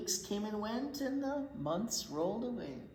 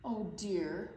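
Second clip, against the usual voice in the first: rising to a high crying can't; whimper, then break into a cry; frightened wail; 10 semitones higher, 3 dB louder, much slower than usual. Acted. Kevin clinging to the tree, crying in fear. Scared Kevin refusing to let go.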